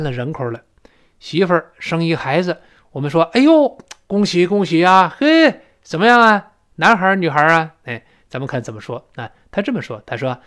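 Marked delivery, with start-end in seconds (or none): 3.3-7.7 acted happy exclamation; delighted congratulation. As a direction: congratulate a friend on a new baby. Acting out congratulating a new parent.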